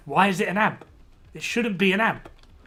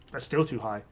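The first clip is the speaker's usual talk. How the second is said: quieter repeat; 4 semitones lower, 5 dB quieter than usual. Shown as a demonstration. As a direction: repeat "That's still too high." lower and softer.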